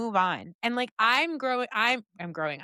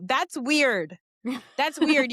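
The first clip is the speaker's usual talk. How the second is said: 1 imitating older son; 5 semitones higher, 4 dB louder, much slower than usual. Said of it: "And my older one would go".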